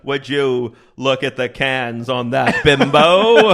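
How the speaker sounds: Jimmy Stewart impression. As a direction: stretch it out like a classic film star leering. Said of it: "The Jimmy Stewart Porky's".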